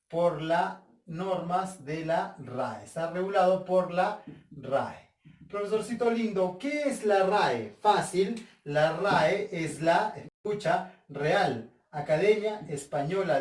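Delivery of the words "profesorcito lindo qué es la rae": higher, lightly acted pupil's question; coaxing student. Student asks dear teacher what the RAE is, coaxing question. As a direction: play a pupil sweet-talking the teacher.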